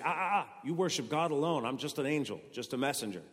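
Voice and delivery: high, laughing "Ah, ah, ah" of a mildly scolding angel; a lightly voiced angel wagging a finger. An angel waving off a worshipper, lightly voiced scolding. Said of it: "kick the person and say".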